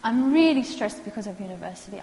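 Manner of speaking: plain client statement, lightly voiced; client stating stress. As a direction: say it as the stressed student would. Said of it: "when a person says to me".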